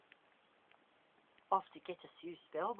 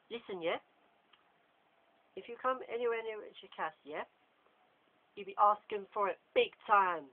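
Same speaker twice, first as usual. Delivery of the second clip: threatening warning; 5 semitones higher, 7 dB louder than usual. Acted. Draco to James, a menacing warning. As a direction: warn him off, menacing.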